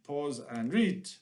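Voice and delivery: put-on slow, unsure stab at a Jamaican accent. Teacher cueing a reading break, shaky attempt at Jamaican accent. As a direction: drag it out in a mock Jamaican accent. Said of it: "is that Jamaican?".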